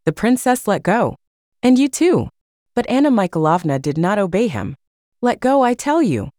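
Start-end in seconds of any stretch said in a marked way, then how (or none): 1.6-2.3 reproachful. A narrator's reading. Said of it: "with reproach and surprise". 5.2-6.3 reproachful. A narrator's reading. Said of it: "with reproach and surprise".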